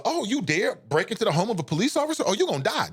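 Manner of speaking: imitating an arrogant police mindset; mock arrogant cop. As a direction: sneer it like an offended officer. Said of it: "It was a mindset".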